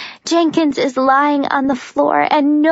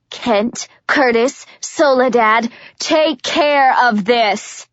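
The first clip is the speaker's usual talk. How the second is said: commanding shout; slower than usual. Acted. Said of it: "Warner shouts to his men".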